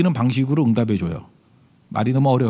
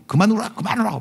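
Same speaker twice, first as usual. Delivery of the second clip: higher mock scolding, repeated; scolding mother; 4 semitones higher than usual. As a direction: imitate a mom while spanking. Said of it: "그러면 막 때리는 거야". (때리며 혼내는 엄마 흉내)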